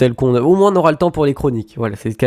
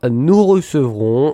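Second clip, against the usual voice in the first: slow, stretched-out announcement; drawn-out stalling; much slower than usual. Real, not acted. Radio host stalls while looking for the guest list, drawn out. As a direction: stretch each syllable while searching for the name.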